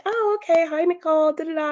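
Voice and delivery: lady on the phone warms to Nicole, high and chirpy; mock sudden sweetness. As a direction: flip to fake-friendly in a high voice.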